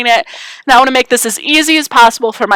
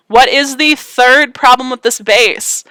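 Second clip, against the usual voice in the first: teacher voice; slower than usual. Real, not acted. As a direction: ask the class like a teacher. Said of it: "I'm using my teacher voice".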